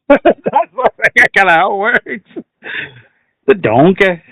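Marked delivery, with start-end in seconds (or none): 3.5-4.2 mock Scottish ogre; Shrek. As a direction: say it in a cartoon Scottish accent. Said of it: "Just do Shrek".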